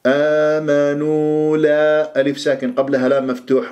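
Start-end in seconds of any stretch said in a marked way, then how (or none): 0.1-2.2 slow, measured tajweed recitation; Quran recitation demo. Shown as a demonstration. Teacher models a Quran verse for students, slow recitation. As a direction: stretch the long vowels evenly. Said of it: "مد طبيعي حركتين".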